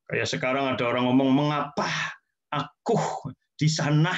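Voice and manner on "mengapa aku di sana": a hint of melodrama, spaced words; overdramatic. Teacher mocking exaggerated speech, lightly melodramatic. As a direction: pause between each word like a soap star. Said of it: "nggak usah lebay-lebay begitu ya".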